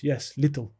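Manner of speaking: light mock Russian accent; retold Russian accent. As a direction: imitate a Russian's halting English. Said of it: "that was a Russian accent".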